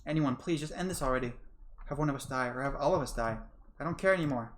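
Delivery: raw, rising plea to end it; desperate pleading. Acted. Karma begs God and Satan to end it. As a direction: beg anyone to end it.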